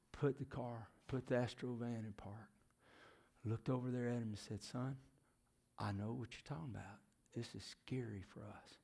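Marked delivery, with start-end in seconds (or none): 4.6-8.8 gentle reassurance. Retold or imitated. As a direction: console a frightened child quietly. Mother comforting her tearful son.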